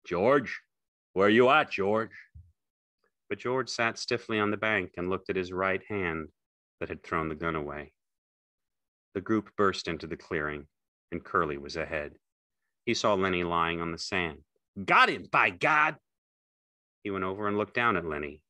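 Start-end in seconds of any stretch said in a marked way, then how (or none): 0.0-2.3 calling out, raised mid-phrase; understated shout. A narrator's reading. Slim searching for George, mild calling shout. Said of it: "Slim's voice shouted". 14.8-16.0 high, loud, drawn-out outburst; excited exclamation. A narrator's reading. Curly finding Lenny on the sand, loud exclamation.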